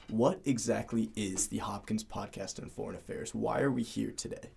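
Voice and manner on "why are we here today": ordinary talk, nothing marked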